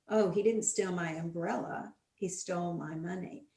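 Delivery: "umbrella" then "money" stressed. Shown as a demonstration. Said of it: "stressing the words in a sentence".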